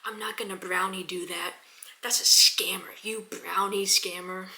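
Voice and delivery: hissed angry whisper, mock offended; a hushed, imitated angry rant; imitating angry guy. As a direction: whisper the insult at him like a grumpy seller. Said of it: "probably not that angrily".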